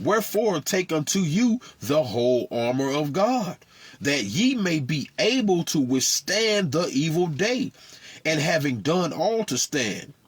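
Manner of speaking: solemn, measured Bible reading; scripture reading. Acted. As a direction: read the verse like a preacher from the pulpit. Reads verse thirteen aloud.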